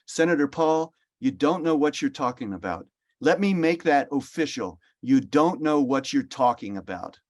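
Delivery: quoting an official rebuking a senator at a hearing, mildly exasperated; Tony Fauci, no accent. Retold or imitated. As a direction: lightly play the irritated doctor putting a senator in his place. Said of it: "I'm not gonna do the Brooklyn accent".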